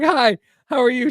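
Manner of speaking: forced normal voice. Retold or imitated. High guy greeting the girl in an overdone polite voice. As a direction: try way too hard to sound normal. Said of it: "start talking like this".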